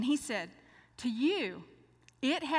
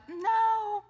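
higher, louder firm no; husband's firm refusal; emphatic no; 11 semitones higher, 5 dB louder than usual. Retold or imitated. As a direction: cut her off firmly. Husband insists.

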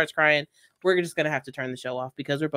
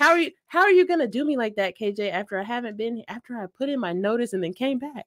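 mock indignation; 7 semitones higher than usual. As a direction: plead your case in hammed-up outrage. Playful complaint to the host.

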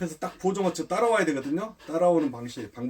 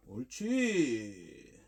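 long drawn-out, softer "good"; soft praise; 2 semitones lower, 7 dB quieter, much slower than usual. Real, not acted. Trainer rewarding the dog for barking, soft praise. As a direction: stretch the praise out slowly, gently. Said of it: "칭찬은 아주 부드럽고".

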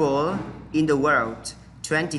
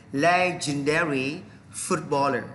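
ordinary talk

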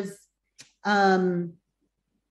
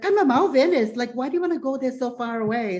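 lightly imitated mom, higher-pitched; protesting mother; 6 semitones higher than usual. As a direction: object like a mother, starting high then easing. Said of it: "she was like".

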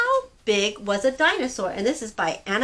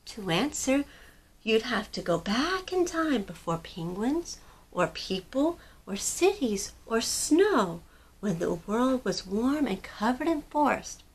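mama; 5 dB quieter than usual. Acted. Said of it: "Pipkin's mama said".

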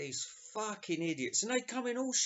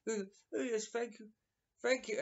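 higher, softer gracious gentleman; lord of the manor; 5 semitones higher, 4 dB quieter, faster than usual. Retold or imitated. Classy Englishman abroad thanking Americans, lord-of-the-manor manner. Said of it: "he's Lord of the Manor".

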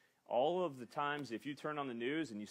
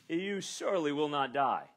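1 serpent's taunt; 3 semitones higher, 8 dB louder than usual. Acted. Quoting the serpent's lie to Eve.

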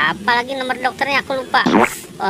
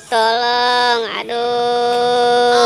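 cry for help; much slower than usual. Acted. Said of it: "Aku sakit perut".

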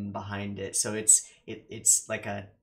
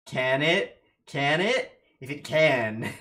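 louder and higher with each question; excited; 5 semitones higher, 9 dB louder, slower than usual. Real, not acted. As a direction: build the hype up, rising. Mock excited building questions.

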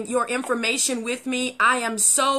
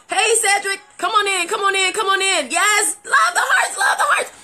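excited greeting; 8 semitones higher, 4 dB louder than usual. Real, not acted. Greeting viewers, reacting to hearts.

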